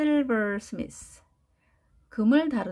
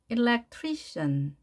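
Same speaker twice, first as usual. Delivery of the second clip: electrician. stretched very slowly; electrician. drawn out, stress marked; 2 semitones higher, much slower than usual. Shown as a demonstration. Teacher stressing the word for students, slow. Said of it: "액센트가 어디에 있는지가 매우 중요한데요".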